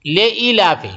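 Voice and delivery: لے ایلاف with a short "le" vowel, the way students say it wrongly; mock learner's slip on لے ایلاف; wrong pronunciation. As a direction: imitate the students' mistaken لے ایلاف. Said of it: "اس میں تلفظ بھی بہت غلط کرتے ہیں".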